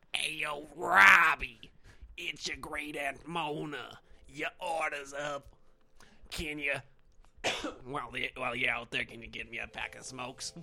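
a hint of a raspy old aunt calling; great aunt Mona voice. Cook calling the server as great aunt Mona, lightly voiced. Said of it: "I liked to do a voice".

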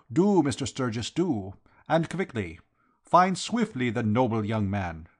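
lightly voiced foreign Count, urging; Count, earnest and formal. Count urging the detective to find the young man, earnest. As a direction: play a solemn, insistent Count.

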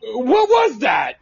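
slow startled question; startled by a strange noise. Real, not acted.

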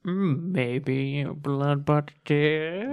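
slow, sly and teasing; coy teasing. Acted. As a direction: drag it out slyly. GM plays coy doctor Bloodbutt.

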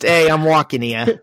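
stock New York accent bit; a hammed-up New Yorker's protest. Shown as a demonstration. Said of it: "Mine's just".

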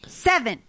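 SEVEN alone, punched, falling sharply; emphatic disbelief. Real, not acted. Storyteller stressing the mouse count, emphatic. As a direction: hit SEVEN as a one-word exclamation.

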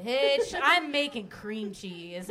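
mock yell, loud start easing off; slow, drawn-out scolding, half laughing; imitated yelling. Host imitating a baker telling people off, slow mock yell. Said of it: "yell at Mystic people".

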